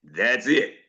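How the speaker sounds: deep mock preacher close: "That's it."; imitating Doctor Mark. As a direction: drop the voice low and land "That's it" like a final word. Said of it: "it's always like this".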